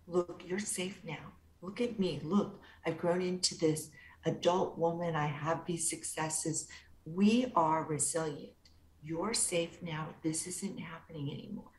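put-on calm a frightened little girl gently; soothing inner child. Therapist reassuring her inner child.

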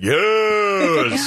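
high, gleeful dog cheer; excited dog voice. Retold or imitated. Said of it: "the boxer dog is all excited".

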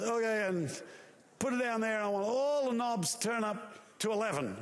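mildly hammed-up boss directing the setup; lightly acted commander. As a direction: rattle off grand orders to a road crew. God gives sound crew orders.

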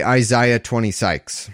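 a light imitation of a friend's regional accent, "Sykes" for "six"; Harley's accent. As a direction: lightly mimic the way he says "twenty Sykes". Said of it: "Or as Harley would say".

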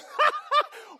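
high hammed-up chuckle; high mock laugh; amused laugh. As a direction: laugh it off as cute. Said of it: "God is looking at it like he's like".

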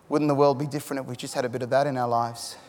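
low, hushed retold reflection; softly wistful. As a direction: say it softly, as if moved. Tough tradesman moved by word love.

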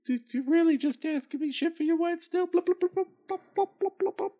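irritated goldfish. Acted. Annoyed goldfish.

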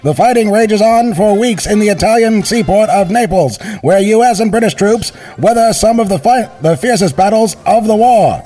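put-on high, energetic old newsreel voice; newsreel announcer. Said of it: "classic energetic voice of a newsreel announcer".

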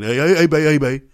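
butter her up gently with a lie; sucking up. Retold or imitated. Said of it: "he go to sucking".

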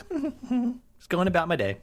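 high, slow singsong mock voice; lightly mocking carefree airhead; oblivious character. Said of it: "instead it was just like".

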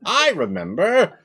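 laughing high imp; giggly sneering imp. Acted. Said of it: "says the imp".

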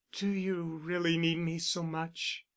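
broken. A narrator's reading. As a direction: ask it quietly, a touch of a break. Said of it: "she asked brokenly".

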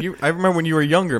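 a lighter take of the aunt, corrected wording; retold aunt line, fast, with younger instead of youngin'; imitating the aunt. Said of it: "Maybe she didn't say youngin'".

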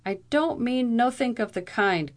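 high, gruff cockney officer; gruffly. A narrator's reading. McGrab the bailiff answers the captain gruffly. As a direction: answer gruffly, rough lawman. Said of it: "said Mister McGrab gruffly".

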